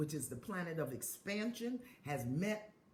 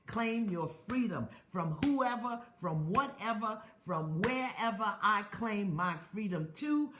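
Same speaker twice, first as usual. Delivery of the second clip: rising, fervent call to claim freedom; preaching affirmations; 3 dB louder than usual. Acted. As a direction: preach each line like a declaration. Leads affirmation chant.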